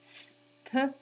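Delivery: S-P-R-E-D as separate speech sounds; sounded out. Shown as a demonstration. Teacher repeating for kids, sounded out. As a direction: say S-P-R-E-D by sound, not by letter. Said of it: "Let's give it one more go".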